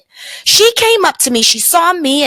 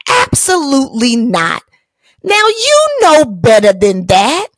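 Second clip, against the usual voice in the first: firm refusal. Retold or imitated. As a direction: shut her down firmly. Firm refusal to stranger's touch.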